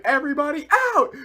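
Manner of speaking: loud, high-pitched explosive order; furious shout. Retold or imitated. Salem throwing her henchmen out, furious shout. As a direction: yell it as an enraged villain.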